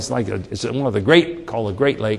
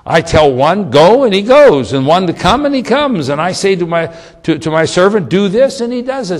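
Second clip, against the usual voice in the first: high and loud, acting out orders; animated officer; 4 semitones higher, 5 dB louder than usual. Centurion telling Jesus how his soldiers obey, high and loud. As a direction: play the proud commander.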